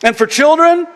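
normal talking voice

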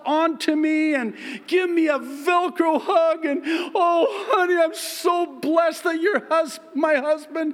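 high, loud, squealing gushing wife; imagined wife squealing over her husband. Retold or imitated. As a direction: play the adoring wife squealing with delight. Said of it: "fully expecting her to throw herself".

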